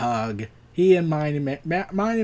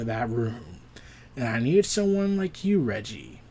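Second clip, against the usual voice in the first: lower, softer, calmly menacing; psychopath; 5 semitones lower, 4 dB quieter than usual. Acted. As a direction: purr it like a calm manipulator. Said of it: "tilts his head like a psychopath".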